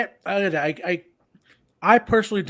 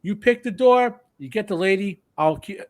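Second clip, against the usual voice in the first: barbarous king; 4 semitones higher than usual. Retold or imitated. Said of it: "He says".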